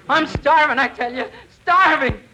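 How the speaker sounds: hammed-up starving prospector; old prospector voice. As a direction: plead like a starving old miner. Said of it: "You're going to be an old prospector".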